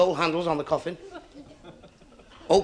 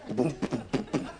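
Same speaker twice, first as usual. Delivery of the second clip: imitated drum; 5 semitones lower, 6 dB quieter than usual. Imitates the one-man band's drum.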